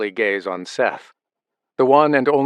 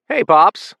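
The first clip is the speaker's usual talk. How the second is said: put-on cheerful drunk; 8 semitones higher, 6 dB louder than usual. A narrator's reading. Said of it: "a drunken smile on his face".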